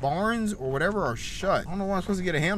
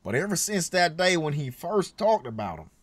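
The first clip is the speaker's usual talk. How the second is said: put-on country accent; 4 dB quieter than usual. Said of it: "I'm sorry for the country accent".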